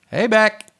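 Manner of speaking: high, loud "Hey, Beck"; gag greeting. Acted. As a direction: call out the greeting high and punchy.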